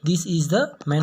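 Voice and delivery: "the" said short as "duh" before "man". Shown as a demonstration. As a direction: read "the" weak before a consonant. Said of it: "तो इसको क्या पढ़ेंगे हम लोग". ("the" को "द" की तरह छोटा बोलें)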